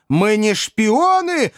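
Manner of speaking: high, drawn-out protesting cry; sincere wail. A narrator's reading. Pickwick convincing the crowd of his innocence, high sincere wail. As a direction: wail the denial, stretched and high. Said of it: "завопил мистер Пиквик таким голосом".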